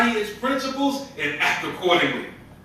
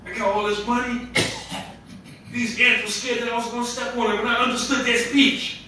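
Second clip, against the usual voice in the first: raised-pitch pretend bragging; mock overcompensating boast; 4 semitones higher than usual. Preacher mimicking how the prophet did not talk, mildly boastful. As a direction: play at showing off, lightly. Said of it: "he wasn't overcompensating like that".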